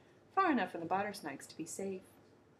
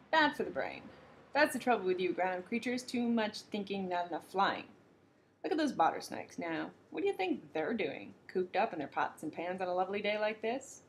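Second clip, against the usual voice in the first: lightly voiced breezy kookaburra. Kookaburra lecturing the Gumble.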